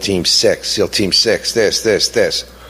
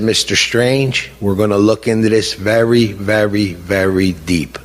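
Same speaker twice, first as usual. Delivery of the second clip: Obama impression; 2 semitones lower than usual. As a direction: lightly mimic a politician's measured reassurance. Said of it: "Mister President whispered in my ear".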